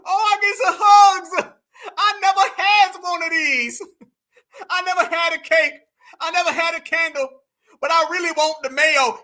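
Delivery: playful imitation of a thrilled boy; mock overjoyed kid. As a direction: ham up a child's teary glee. Adopted kid voiced celebrating.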